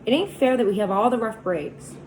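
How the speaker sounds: put-on boy crying out passionately about hard luck. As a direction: cry out against injustice. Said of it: "I cried passionately".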